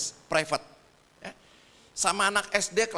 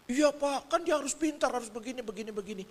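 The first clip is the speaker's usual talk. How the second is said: lightly voiced defensive mother; ibu membela diri; 4 semitones higher, 4 dB quieter than usual. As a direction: start high, then trail off softer through the list. Voices the mother defending her demands. (menirukan ibu yang membela diri, nada awal tinggi)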